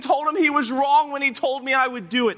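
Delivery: loud, high cry of self-reproach; acted anguish. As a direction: act out a man despairing of himself. Preacher voicing Peter's anguished self-doubt.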